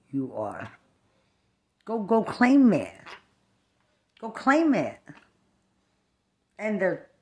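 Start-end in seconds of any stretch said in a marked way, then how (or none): 1.8-5.0 화난 도발하는 외침; 크게 쏘아붙이듯 도전해; angry dare. Real, not acted. Angry rant daring someone.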